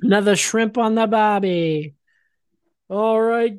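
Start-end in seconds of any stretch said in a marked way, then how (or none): 0.0-1.9 mock Australian accent. Echoes the mock Australian catchphrase.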